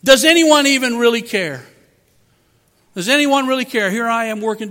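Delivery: a preacher voicing a weary, unappreciated worker; self-pitying complaint. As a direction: complain that nobody cares. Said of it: "destructive thought".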